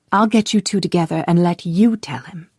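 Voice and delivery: hushed unvoiced promise; woman whispering a matchmaking promise to her friend. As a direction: whisper it like a shared plot. Whispering a plan before riding off.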